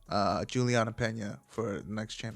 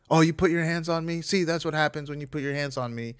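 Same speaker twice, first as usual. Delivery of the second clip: a touch louder, mocking taunt; mock taunting man; 4 semitones higher, 4 dB louder than usual. Boyfriend gloating on livestream, mock taunt. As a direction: sneer it like the gloating guy. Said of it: "and being like".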